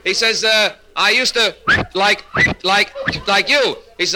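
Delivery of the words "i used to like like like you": high, slow sputter on "like"; stuttering speech. Acted. Man confiding across the psychiatrist's office, stuttering. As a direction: stall noisily, then repeat the word. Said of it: "same trouble that he's got".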